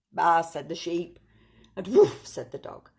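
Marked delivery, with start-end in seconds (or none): 0.1-0.4 loud sheep baa; sheep bleat. Acted. Animal noises in picture book. 1.9-2.3 high loud woof; dog bark. Acted. Animal noises in picture book.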